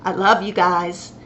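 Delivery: loud affectionate goodbye; between kisses. Real, not acted. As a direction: call out bye with a big kiss. After kisses, signing off.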